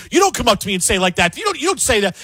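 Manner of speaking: quick, offended mock complaint; indignant mock protest. Media worker snapping at a heckler, mock offended. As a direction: play the thin-skinned pundit, half-hearted. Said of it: "They're saying".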